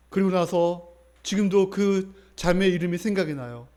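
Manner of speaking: ordinary talk, nothing marked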